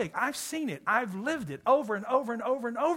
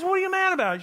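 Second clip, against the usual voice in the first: higher, puzzled husband asking; 11 semitones higher, 3 dB louder, faster than usual. Retold or imitated. Husband asks his wife why she's upset, higher and puzzled. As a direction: play the baffled husband.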